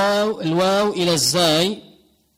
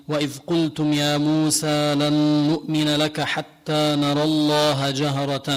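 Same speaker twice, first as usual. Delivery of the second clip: Hafs recitation. Shown as a demonstration. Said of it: "فحنقرأ".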